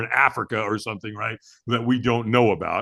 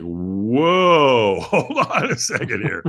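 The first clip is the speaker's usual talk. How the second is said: a louder startled whoa, then laughing it off; 4 dB louder, much slower than usual. Retold or imitated. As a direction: pull back in laughing disbelief. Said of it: "And I'm like".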